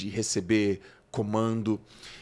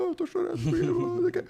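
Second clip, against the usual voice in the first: high, whiny mock sob of a boy who came last; mock crying; faster than usual. Boy telling his coach why he is crying, high mock sob. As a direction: whimper it like a kid in tears. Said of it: "eu falando chorando".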